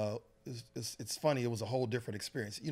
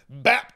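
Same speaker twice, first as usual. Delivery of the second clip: mock impact sound; 3 semitones higher, 16 dB louder than usual. Sound of knocking sundae away.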